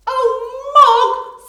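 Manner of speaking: high, loud shocked exclamation; loud dismayed Debbie; dismayed cry. Acted. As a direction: scold the cat in alarm. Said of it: "said Debbie".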